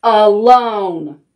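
slow, loud, every word spelled out; angry bear. Acted. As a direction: growl it slowly to drive them off. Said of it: "Bear roared".

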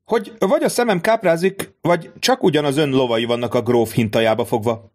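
can't believe his eyes; excited exclamation. Acted. Debray exclaims at window.

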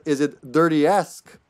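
said slowly and deliberately; drawn out punchline. Shown as a demonstration. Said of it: "I should have said".

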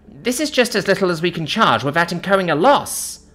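high, flustered shop woman; panicking. A narrator's reading. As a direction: plead your case in a high-pitched panic. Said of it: "Panicking, she answers".

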